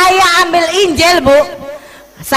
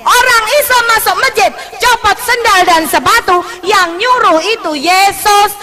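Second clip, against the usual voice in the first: spring the answer on her; mother answering the daughter, triumphant; 7 semitones higher than usual. Retold or imitated.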